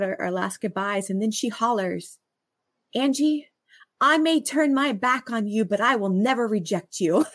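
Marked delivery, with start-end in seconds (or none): 2.9-7.2 light Southern twang, called out a bit high. Retold or imitated. Friend calling goodbye at the car, in Southern twang. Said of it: "In her Southern twang".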